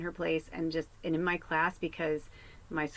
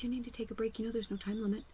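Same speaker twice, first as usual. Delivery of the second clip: softer, higher teacher's whisper; whispered advice; 4 semitones higher, 6 dB quieter, faster than usual. Retold or imitated. Teacher whispering to a stressed student during the exam. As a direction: lean in and whisper it gently. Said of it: "she whispered in my ear".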